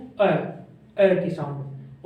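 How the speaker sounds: अ stretched out slowly; vowel demo. Shown as a demonstration. Teacher isolating the short vowel, slow. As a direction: hold the अ sound for the class. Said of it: "और इसमें ए".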